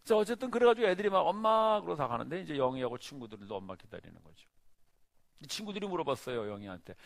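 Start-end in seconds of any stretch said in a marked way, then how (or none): 1.2-1.8 loud, high call of "엄마"; a child shouting for mom. Retold or imitated. Kids calling for their mother. (아이처럼 크게 엄마를 부르며)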